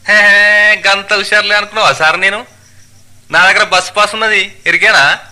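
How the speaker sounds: loud, high-pitched dialect boast; triumphant cocky passenger. Acted. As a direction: crow over outsmarting the conductor. (గొప్పగా చెప్పుకునే ప్రయాణికుడు, పెద్దగా)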